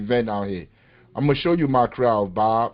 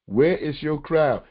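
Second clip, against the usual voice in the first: slow, drawn-out mock of the journalist's question; mimicking the journalist; much slower than usual. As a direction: drag each word out to mock the question. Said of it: "He said".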